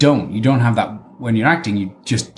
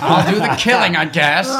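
mock reluctance; 7 semitones higher than usual. Acting reluctant put-upon spy.

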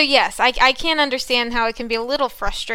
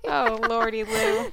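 put-on high, slow old-timey exclamation; hammed-up old gentleman, high and slow; Albert voice; 9 semitones higher, slower than usual. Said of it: "That's Albert".

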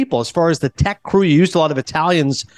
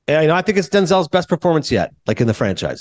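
tossed-off blurb. Retold or imitated. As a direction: toss it out without much conviction. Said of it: "you kinda just farted it out".

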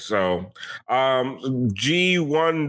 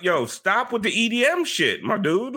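mock friendly request; 6 semitones higher than usual. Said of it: "I just went up to him like".

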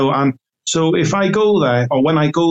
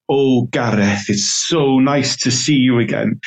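put-on Welsh accent. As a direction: imitate an elderly Welsh lady. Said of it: "in her very Welsh voice".

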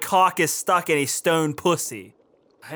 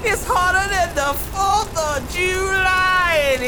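high shout; 10 semitones higher than usual. Acted. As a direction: yell it up high. Same line shouted high.

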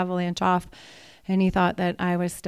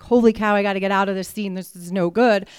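startled panic; 6 dB louder, faster than usual. Retold or imitated. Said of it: "And I think to myself".

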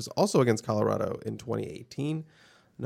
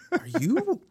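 slow, high-pitched imitated outrage, no real volume; half-voiced mock yell; 13 semitones higher, much slower than usual. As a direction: act out a drawn-out incredulous telling-off. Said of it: "he was yelling at the kid".

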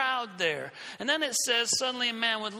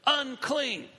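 higher, drawn-out mock call; imitated yelling; 4 semitones higher, much slower than usual. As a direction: call out like a leper warning people, without full volume. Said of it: "they would walk around yelling".

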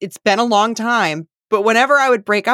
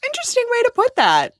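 higher wry amused aside; wry amused tone with a much higher pitch; wry remark; faster than usual. Retold or imitated. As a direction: arch the eyebrows at the phrasing. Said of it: "I was like".

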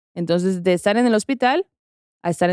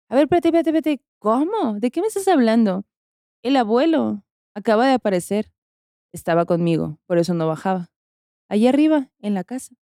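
startled disbelief; 2 semitones higher than usual. Retold or imitated. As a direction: stop her short, baffled. Sister reacts in disbelief.

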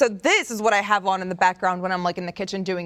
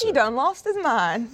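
slow country drawl; put-on, slow backwoods twang; country accent; slower than usual. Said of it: "speak in a, an accent like that".

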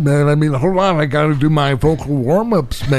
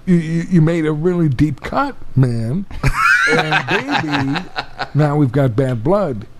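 Jeff Bridges voice. Pretend. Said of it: "Jeff Bridges could read some of the lyrics".

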